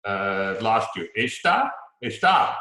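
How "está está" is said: "Está" with a higher, louder final TÁ; stress on ending. Shown as a demonstration. Student trying it one more time, está stressed on the ending. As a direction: punch the end of está, lifting it like a question. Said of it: "There you go".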